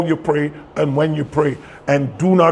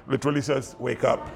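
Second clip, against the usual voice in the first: quiet aside; 2 semitones lower, 10 dB quieter than usual. Shown as a demonstration. Literal gloss as an amused aside.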